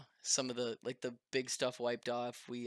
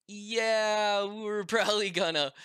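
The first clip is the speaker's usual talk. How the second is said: laughing reply; 8 semitones higher, 7 dB louder than usual. Retold or imitated.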